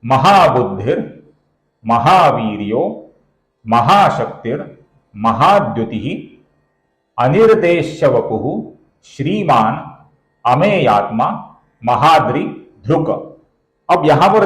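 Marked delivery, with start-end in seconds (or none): 0.0-6.3 slow, word-by-word chanting of the verse; slow shloka recitation. Shown as a demonstration. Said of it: "और ये श्लोक इस प्रकार है". 7.2-13.1 measured recitation of the verse names; shloka recitation. Shown as a demonstration. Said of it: "और ये श्लोक इस प्रकार है".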